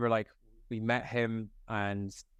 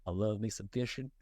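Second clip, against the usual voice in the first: goofy Keaton line; 4 dB quieter than usual. Retold or imitated. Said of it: "he goes".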